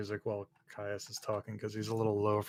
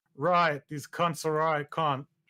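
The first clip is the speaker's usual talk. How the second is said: loud, high-pitched put-on Australian accent; 6 semitones higher, 5 dB louder than usual. Voicing a character responding over the comms: australian accent. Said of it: "That's my best Australianese".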